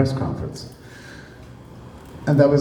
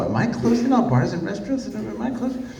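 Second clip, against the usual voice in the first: higher, puzzled voice asking himself; confused Trump; 8 semitones higher, 4 dB quieter than usual. Retold or imitated. Trump, unsure of his own order, asks himself in a puzzled higher voice. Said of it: "'cause he himself didn't know".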